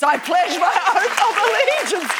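real amused laugh mid-sentence. Real, not acted. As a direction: giggle the words out. Laughing at her own oath.

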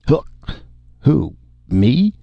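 put-on sudden high, startled drunk; jolted awake by the question; drunken surprise. Drunk spacer caught off guard by the driver, surprised.

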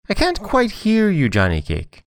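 very high, thin wheedling; high-pitched sly fox voice; fox feigning deafness. A narrator's reading. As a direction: lure them in with a falsetto plea. Fox feigns poor hearing.

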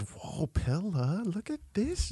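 mock alarm. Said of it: "I read it and I said".

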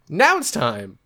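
slow line, voice breaking mid-word; voice cracking. Real, not acted. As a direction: voice cracks up high on now. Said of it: "I think my voice just cracked".

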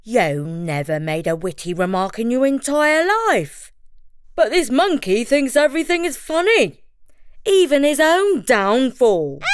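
a hint of the bear; mild bear voice. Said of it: "the bear said to the tiger".

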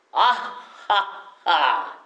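short detached "あっはっは", slow and bouncy; staccato laugh. Shown as a demonstration. Teacher showing the class a staccato laugh. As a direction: clip each "は" like a staccato note. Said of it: "スタッカート気味で".

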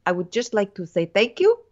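hammed-up Spanish accent; Juan Pablo. Podcaster imitating the bachelor thanking women, Spanish accent. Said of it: "Juan Pablo's like".

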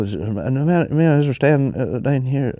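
lightly put-on Donegal accent; a singer's accent. Guest telling the host who's staying, in a mock Donegal accent. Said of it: "what's the singer's accent".

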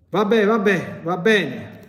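high, loud shriek of giving in; shrieking demon. Retold or imitated. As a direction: shriek in forced surrender. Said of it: "ha esclamato strillando". (strillo imitato del demonio)

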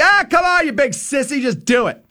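mock taunting. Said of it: "kinda jawed at me like".

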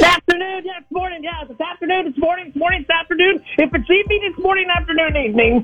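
a lightly high zany babble; zany character voice. Acted. A caller babbling at the hosts in a zany high voice. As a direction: rattle it off like a goofy cartoon guy.

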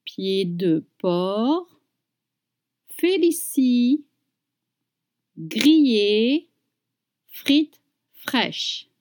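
slow careful menu reading, each item drawn out; slow French menu drill; slow practice read. Shown as a demonstration. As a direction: read it slowly for learners to follow. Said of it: "Now real speed".

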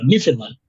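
"Newfoundland" said as "NIF-in-an", squashed and quick; odd local pronunciation. Retold or imitated. Imitating how locals say the name, clipped "nif-in-an". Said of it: "lo dicen como muy raro".

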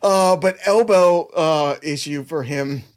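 a hint of puppet voice, slow; easing out of the squeaky voice; fading Elmo voice; lightly voiced Elmo, slow. Still half in the voice.

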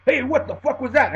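loud, high outraged yell; buddy confronting the bouncer; mock furious yell; angry demand. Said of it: "his muscle-bound buddy steps up".

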